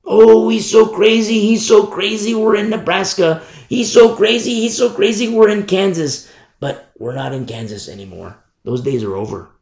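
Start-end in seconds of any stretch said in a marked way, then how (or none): 0.0-6.3 higher-pitched mimicking of scoffers; raised, repetitive mock complaint; mocking critics. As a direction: imitate people dismissing a warning as crazy. Mocking critics who call him crazy.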